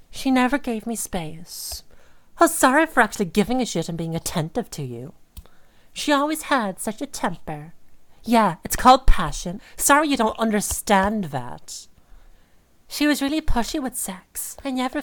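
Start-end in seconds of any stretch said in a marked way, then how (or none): 2.4-5.1 fast, bitter hissed sarcasm; sarcastic muttered aside, quick and scornful; sarcastic whisper. Acted. Sarcastic rant at partner's texts. 8.2-11.9 indignant. Acted. Angry reply to partner's texts.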